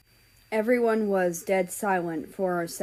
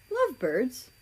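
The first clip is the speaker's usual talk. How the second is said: confused; 4 semitones higher than usual. Acted. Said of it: "a bit confused".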